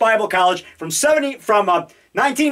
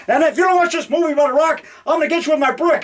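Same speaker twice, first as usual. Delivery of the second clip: mock threat; 5 semitones higher, faster than usual.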